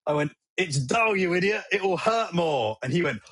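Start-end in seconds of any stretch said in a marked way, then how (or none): 0.6-2.8 Robin Hood villain quote. Retold or imitated. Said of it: "Robin Hood, Prince of Thieves references".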